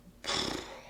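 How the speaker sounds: quiet breathy yawn; soft yawn. Real, not acted. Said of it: "these yawns are gonna be the death of me".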